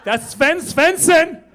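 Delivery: put-on starstruck kid. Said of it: "he's like".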